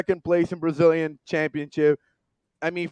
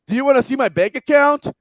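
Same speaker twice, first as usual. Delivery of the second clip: higher, faster boast about his bank account; snarky pretentious coach; 7 semitones higher, 3 dB louder, faster than usual. Retold or imitated. Coach boasting to a reporter, snarky and pretentious. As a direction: show off his money with a smug sneer. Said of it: "in a very, uh, pretentious, uh, very snarky way".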